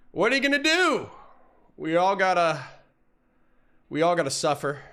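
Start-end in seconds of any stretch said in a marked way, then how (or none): 0.1-2.6 much higher, louder cartoonish repeat of "What are you gonna do?"; mock whiny shrug in a high voice. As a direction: squeak it out like a resigned cartoon character.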